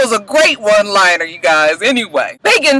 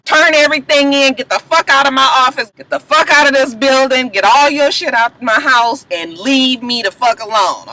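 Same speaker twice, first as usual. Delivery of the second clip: mild mock yell, pitched up; retold yelling; 5 semitones higher than usual. Cookie throws Carol out, retold yelling. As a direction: act out her angry tirade, only slightly raised. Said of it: "She yells and screams".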